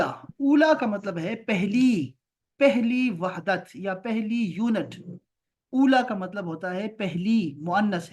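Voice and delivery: slow, emphatic teacher explanation; deliberate slow lesson voice; slow explaining. Shown as a demonstration. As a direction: drag each word for the class. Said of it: "teacher explains meaning slowly".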